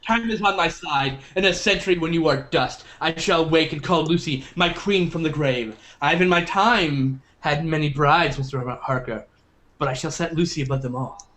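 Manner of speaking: lightly voiced vampire speech; villain monologue. Continues Dracula quote.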